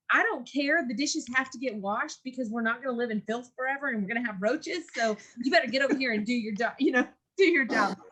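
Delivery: a hint of a scolding mom. Mom telling kids to wash dishes, mild mock scolding. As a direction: nag firmly but lightly, half laughing at the end. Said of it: "that tone".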